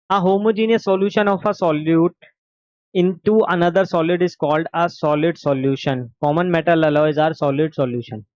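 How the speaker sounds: slow, deliberate textbook reading; dictation. Acted. Teacher dictating notes to the class, slow and deliberate. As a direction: spell out each phrase for notes.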